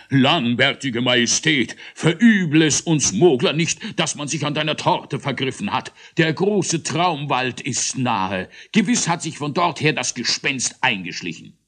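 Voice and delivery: high, loud, agitated plea; highly agitated. Acted. Großmogler excitedly calling to King Eierbatz. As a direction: rush to the king in a fluster. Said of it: "Aufs höchste erregt rief er".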